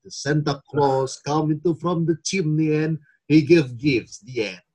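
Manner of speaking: slow, lightly acted creepy Christmas tale; creepy storyteller voice. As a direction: tell it slowly like a strange street storyteller.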